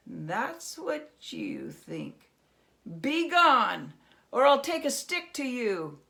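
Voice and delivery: defiant Herschel. Acted. Herschel defying the goblin, threatening a stick. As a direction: stand up to him.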